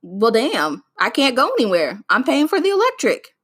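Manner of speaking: hammed-up budget panic; mock exasperation. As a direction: vent about paying for electricity. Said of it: "because I was like".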